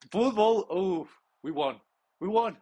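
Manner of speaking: high, loud cry of victory; joyful shout. Real, not acted. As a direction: burst out in triumph. Winning in the last seconds.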